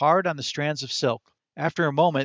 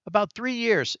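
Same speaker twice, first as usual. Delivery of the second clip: high, quick squirrel voice pitched well up; chirpy little animal voice for the squirrel; talking squirrel; 7 semitones higher than usual. A narrator's reading. Narrator voicing the squirrel to Chester, high chirpy squirrel.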